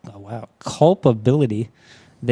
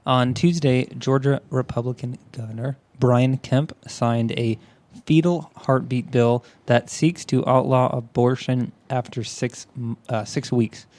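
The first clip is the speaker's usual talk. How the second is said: measured, informative reading; news article read-aloud. Real, not acted.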